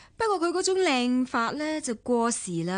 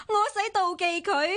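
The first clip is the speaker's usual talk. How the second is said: indignant scoff; 7 semitones higher, faster than usual. Acted. Indignant retort to jealousy accusation.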